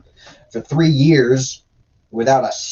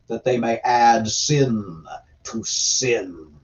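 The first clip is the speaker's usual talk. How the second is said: scripture reading. Acted. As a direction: read it out as a prophet's decree, unhurried. Reads scripture aloud.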